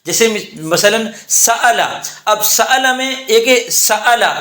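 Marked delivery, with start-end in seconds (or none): 1.3-1.9 سألہ with a full, distinct hamza; unchanged hamza. Shown as a demonstration. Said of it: "یہ ہم نے تبدیل نہیں کیا". 2.5-2.9 سألہ with a full, distinct hamza; unchanged hamza. Shown as a demonstration. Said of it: "یہ ہم نے تبدیل نہیں کیا".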